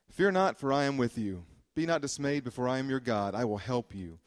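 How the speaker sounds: preacher reading the verses with rising conviction; scripture reading. Acted. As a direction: proclaim the promises with conviction. Reading scripture promises aloud.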